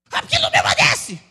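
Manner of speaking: very high, loud, frantic screech; mock parent screaming. Parent complaining about a rebellious child, hammed-up scream. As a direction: shriek it like an out-of-control parent. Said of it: "começa a gritar mais alto que o filho rebelde".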